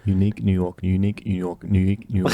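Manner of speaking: unique New York repeated quickly; tongue twister fast. Shown as a demonstration. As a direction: rattle it off three times. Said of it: "three times fast".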